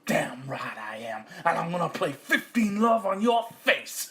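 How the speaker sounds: gloating tough-guy farmer; nasty farmer. Acted. Farmer gloats at cat, hammed-up menace. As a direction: relish the threat in American style.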